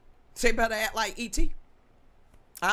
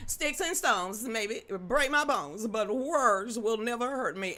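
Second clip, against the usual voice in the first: slow recitation; 2 semitones higher, slower than usual. Real, not acted. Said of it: "slow recited rhyme".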